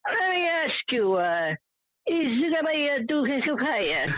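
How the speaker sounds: put-on high, slow thick Italian accent of the pizza man; imitating thick Italian accent. Imitating the pizza man greeting him in a thick Italian accent. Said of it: "He'll go, ... thick accent".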